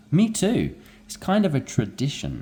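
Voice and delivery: me too pitched high; eager me too. Acted. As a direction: jump in with an excited me too. Role-play dialogue reply.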